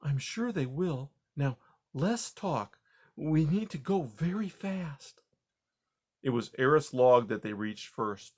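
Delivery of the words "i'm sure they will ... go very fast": brisk grandma mouse. Acted. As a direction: cut the chatter short. Grandma Poppy.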